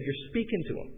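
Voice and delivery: imitation Southern voice on the phone; southern accent. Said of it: "they spoke with a southern accent".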